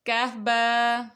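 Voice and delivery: reads کاف با slowly, letter by letter; slow letter reading. Shown as a demonstration. Teacher to children reading the slate, slow spelling. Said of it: "اگلی دیکھتے ہیں line".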